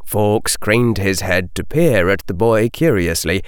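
plain reading voice

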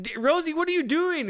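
high-pitched, incredulous retold question; mock dismay. Dan to Rosie during her prank, mock dismay. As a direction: imitate an exasperated husband.

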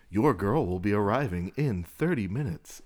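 lightly imitated text-to-speech cadence; robotic female voice. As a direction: recite it like a computer announcement. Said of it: "that really weird robotic female".

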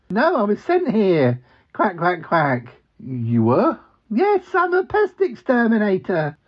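a hint of the cheerful cartoon duck; talking duck. Duck posing as pest exterminator, mildly high and quacky. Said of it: "Ozzy, the talking duck".

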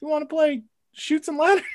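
high nasal-free nerdy whine; stupid nerd voice. Pretend. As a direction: play it as a dorky nerd. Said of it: "like, a stupid nerd voice".

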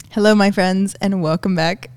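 holding back a laugh; fighting off giggles; trying not to laugh. Real, not acted.

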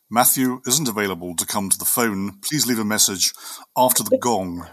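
a hint of a formal English butler. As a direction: answer the phone like a butler, lightly. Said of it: "I do put my English butler's voice on".

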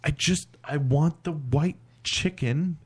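put-on slow, halting drunk order with pauses; imitating drunk insistence. Drunk friend repeats his baffling food order, imitated slow insistence. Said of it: "he's just so insistent".

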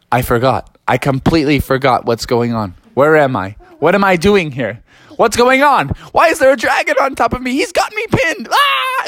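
starts confused, rising into a high panicked cry; panicking giant. Acted. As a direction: build from dazed to high panic.

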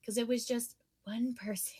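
unvoiced secretive whisper; whispered suspense. Real, not acted. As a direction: hush it like a secret. Teasing suspense about buyer.

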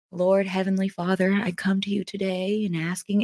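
softly put-on holy prayer voice; hushed, formal mock prayer; mock pious prayer. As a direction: imitate someone praying with a pious front. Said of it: "put on a front".

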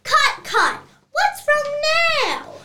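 loud, high exasperated call to stop; exasperated cut. Acted. Director halting the actors, loud exasperated call. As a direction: stop the take, fed up.

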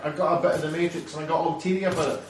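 lightly hammed-up moaning; moaning whiner. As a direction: whinge like a self-pitying robot.

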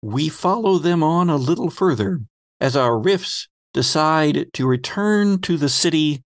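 normal talking voice

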